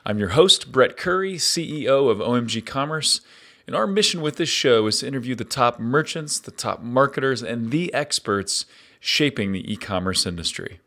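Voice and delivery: upbeat host intro read over music; podcast intro. Acted. Host opening his show with an upbeat intro read. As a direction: welcome listeners like a radio host.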